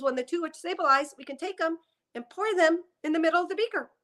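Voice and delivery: walk through it like a chemistry teacher; grandmother's voice. Retold or imitated. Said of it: "she talks in this voice".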